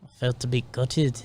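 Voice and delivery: put-on New Zealand accent, lightly done. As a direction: say it like a Kiwi. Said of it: "Do it in a New Zealand accent".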